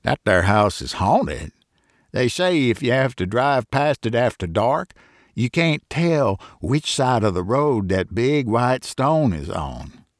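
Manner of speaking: mildly excited farmer telling a ghost tale; a touch of eager alarm in the telling; lightly voiced farmer, a bit worked up. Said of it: "he answered excitedly".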